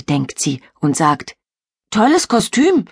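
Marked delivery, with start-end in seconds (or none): 1.9-2.8 trying to sound cool. Acted. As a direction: fake being unimpressed. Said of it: "versucht sie, möglichst cool zu klingen".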